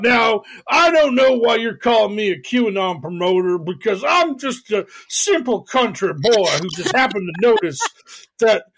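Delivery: put-on innocent simple country boy act; fake bashful aw shucks. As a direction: play dumb, aw shucks. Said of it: "This prick who constantly talks about".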